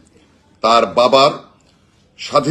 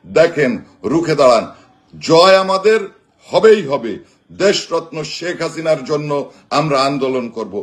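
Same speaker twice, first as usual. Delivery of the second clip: roaring rallying speech; 3 semitones higher than usual. Acted. Rallying crowd at political speech.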